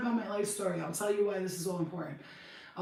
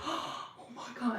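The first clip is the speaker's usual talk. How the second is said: shocked; 5 semitones higher, 4 dB quieter, slower than usual. Retold or imitated.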